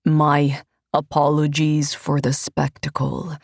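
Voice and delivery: a pious man playing to the crowd, lightly voiced; Ivini the priest.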